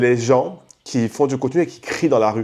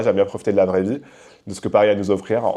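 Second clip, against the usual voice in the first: ordinary delivery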